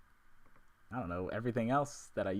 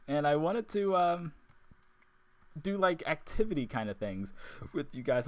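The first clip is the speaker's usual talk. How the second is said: suppressing hiccups; 4 semitones higher than usual. Real, not acted. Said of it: "hiccups are real".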